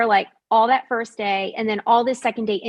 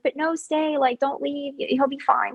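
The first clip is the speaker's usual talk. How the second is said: higher, softer mimicked plea to stay; retold coaxing; 4 semitones higher, 4 dB quieter than usual. Man at the steps trying to keep her, high soft coaxing. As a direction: imitate someone coaxing in a raised, hushed voice.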